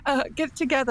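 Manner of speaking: high, hurried self-scolding; nervously talking herself into composure; a flustered scholar scolding herself; flustered inner voice. Acted. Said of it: "she has that flustered moment".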